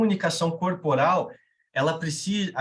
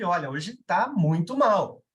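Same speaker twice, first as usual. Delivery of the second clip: mock grave tone; slower than usual. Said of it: "o tom de voz muda".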